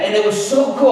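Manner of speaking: plain reading voice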